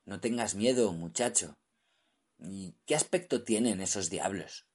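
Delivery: ordinary delivery, nothing marked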